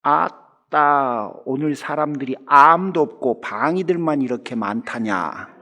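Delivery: Jeolla dialect with a long drawn-out opening word; lightly acted village elder's Jeolla drawl. Village elder remarking on all the defense soldiers aboard the bus, Jeolla dialect. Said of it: "전라도 사투리로 할게요".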